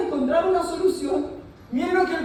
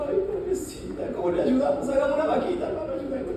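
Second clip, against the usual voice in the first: put-on sniffly pleading, trailing softer; mock tearful pity; 2 semitones higher, 6 dB quieter, faster than usual. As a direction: imitate people tearfully pitying a poor woman. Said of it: "todos nosotros así llorando, así como".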